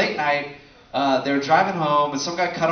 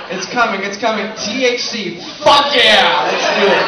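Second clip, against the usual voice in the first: mock stoner cheer; 5 semitones higher, 8 dB louder than usual. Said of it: "what did he say".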